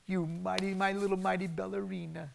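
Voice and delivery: doting parent. Retold or imitated. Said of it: "But we say".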